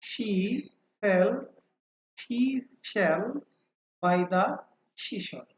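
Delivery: word by word with long gaps; slow tongue twister. Shown as a demonstration. Teacher repeats the twister for students, slow and separated. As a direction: say each word separately, very slowly. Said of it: "আস্তে আস্তে ধীরে ধীরে বলবো".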